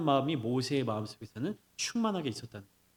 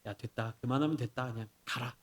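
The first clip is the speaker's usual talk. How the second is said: lightly acted teacher, lower and softer; relenting teacher; 4 semitones lower, 5 dB quieter than usual. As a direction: dismiss it quietly, letting them off. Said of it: "혼내는 모습을 보이면".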